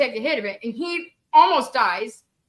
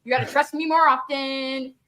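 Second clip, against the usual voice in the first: gloating. Retold or imitated. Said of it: "and I'm gloating".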